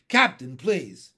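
loud, slow, firm admonishment; sharp plea. Acted. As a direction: insist that the captain stop. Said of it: "the first officer said sharply".

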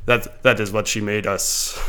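slow, drawn-out imitation of a villain; lightly put-on menace, slowly; evil villain accent. Quoting a film villain to a friend, mock evil accent. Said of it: "in, like, a cool accent too".

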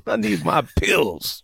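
put-on slow creaky old man; old prospector. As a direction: whine it like a frail oldster. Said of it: "turns to an old man".

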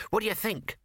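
high, tiny mouse voice; squeaky mouse voice. Acted.

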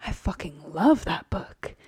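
low, breathy, slightly British impression; Cass audiobook voice. Host imitates audiobook reader as Cass, low slightly British voice. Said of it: "does this fantastic voice for Cass, ... almost British".

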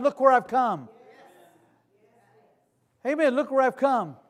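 ordinary talk, nothing marked

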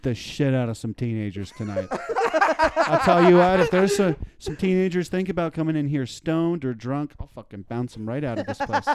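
tough security guard. Retold or imitated. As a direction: play a self-serious security guard, chuckling. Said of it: "Just the security guard who just takes his job at Taco Bell super seriously".

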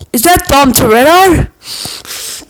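slow, high, drawn-out call; yelled out. Retold or imitated. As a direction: yell it slowly across the beach. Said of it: "I yell out".

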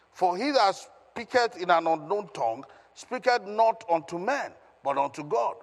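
measured, emphatic Bible reading; scripture reading aloud. Acted. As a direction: proclaim the verse phrase by phrase. Reads scripture aloud to congregation.

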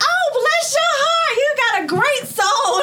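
put-on high, gushing old-lady voice; grateful old lady. Lady thanks her for finding the phone, high and gushing. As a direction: pour out thanks like a sweet grandma. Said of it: "she was like".

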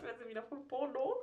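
giggling at the image; laughing. Real, not acted. Lacht beim Witz.

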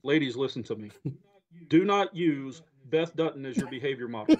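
mock disclaimer. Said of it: "throw this disclaimer out here".

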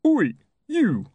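loud, high call down to the river; policeman's challenge cry. Acted. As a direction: shout it out like a copper on patrol. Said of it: "issued the traditional policeman's cry of challenge".

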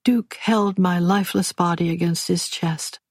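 ordinary delivery

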